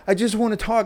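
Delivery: high, whiny mimic of her; mock pleading ex. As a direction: mimic her begging to talk.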